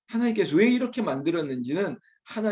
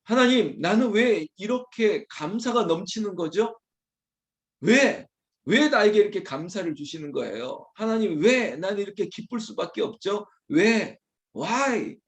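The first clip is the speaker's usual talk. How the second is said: higher, playful demand of God; grateful arguing; 4 semitones higher than usual. Acted. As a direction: challenge Him out of overflowing thanks. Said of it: "하나님께 따지는 거예요".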